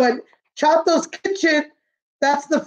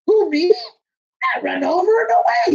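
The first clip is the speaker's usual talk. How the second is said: breezy; 6 semitones higher than usual. Acted. Novio Boy brushes off worry.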